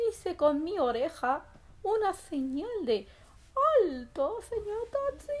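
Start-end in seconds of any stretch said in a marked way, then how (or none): 3.8-5.3 calling out. Acted. Rabbit hails a taxi.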